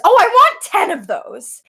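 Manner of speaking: excited quote. Retold or imitated. Ryder spots a plane on the TV, excited. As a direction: act out wanting it badly, voice lifted.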